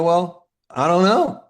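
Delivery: high, slow, mock-innocent shrug. A hint of playing dumb to a Harvard professor. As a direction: play dumb, drawn out. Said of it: "I go".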